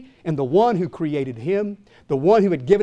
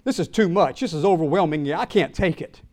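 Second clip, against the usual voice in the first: breaking down; 4 semitones lower, 3 dB quieter than usual. Retold or imitated. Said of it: "broken down right there and said".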